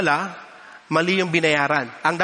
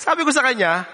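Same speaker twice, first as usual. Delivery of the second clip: normal talking voice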